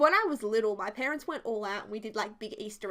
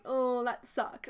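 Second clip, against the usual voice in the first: serious; much slower than usual. Retold or imitated. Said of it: "I was being serious".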